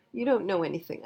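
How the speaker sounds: put-on a touch of a child's angry shout; mild mock scream. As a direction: lightly yell it at the parent. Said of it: "I screamed".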